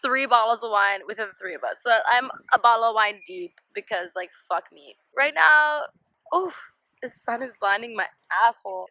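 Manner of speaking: tipsy slurred talk. Real, not acted. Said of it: "I'm so drunk right now".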